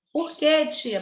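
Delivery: a pupil's quick high "por quê, tia?"; mock student question. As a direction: pipe up like a curious pupil. Teacher voices a student's question. (imitando um aluno curioso)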